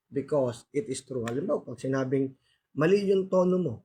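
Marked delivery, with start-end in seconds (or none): 2.7-3.7 higher-pitched imitated critic; acted fault-finding, pitched up; mock criticism. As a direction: play someone pointing out a mistake. Acts out a critic correcting someone.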